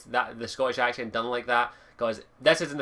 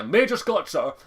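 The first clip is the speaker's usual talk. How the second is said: higher, louder playful "sir" salute; mock military address; 4 semitones higher, 5 dB louder than usual. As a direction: play at hailing a superior officer. Jokey salute to "major Scott, sir.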